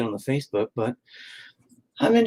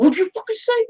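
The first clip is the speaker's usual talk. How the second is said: mock old man snap. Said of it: "And I said".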